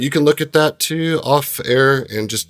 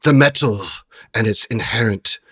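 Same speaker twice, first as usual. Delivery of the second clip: lightly voiced trader, deliberate phrasing; genie trader. Trader answering the adventurers' question, lightly acted and deliberate. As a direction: pose it as a knowing dealer, pausing between phrases.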